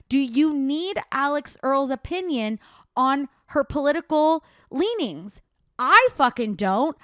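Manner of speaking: indignant, punching the last line; angry rant. Real, not acted. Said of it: "Rant over".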